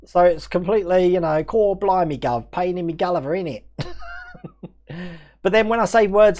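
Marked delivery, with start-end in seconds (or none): 1.4-3.6 mock Essex accent. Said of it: "then moved to Essex".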